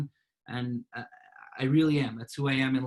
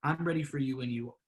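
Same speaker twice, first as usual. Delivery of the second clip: gently lowered, patient offer; demonstrating an unruffled, softened reply; talking calmly; 4 dB quieter than usual. Shown as a demonstration. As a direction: settle the voice and wait them out. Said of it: "you're talking calmly".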